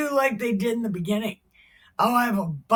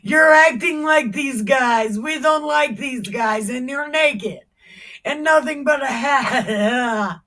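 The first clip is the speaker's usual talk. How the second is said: loud scolding wife; 3 semitones higher, 5 dB louder than usual. Acted. Wife scolding naked husband, loud outraged. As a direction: tell him off, outraged. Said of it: "she's like".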